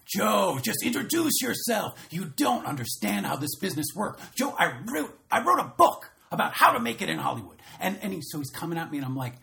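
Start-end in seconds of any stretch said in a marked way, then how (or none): 0.1-7.6 high, loud mock foreign accent; Carlos's put-on accent. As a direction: ham up a pushy producer's accent. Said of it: "He's got an accent".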